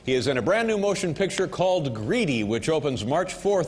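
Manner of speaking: measured host announcement building to the name; talk show introduction. Acted. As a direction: introduce the guest to the audience. Host introduces his first guest.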